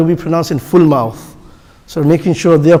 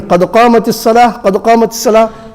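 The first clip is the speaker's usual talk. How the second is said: both قد قامت الصلاة quick and higher, joined; two together; 4 semitones higher, much faster than usual. Shown as a demonstration. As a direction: run the pair of قد قامت الصلاة as one. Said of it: "pray them together".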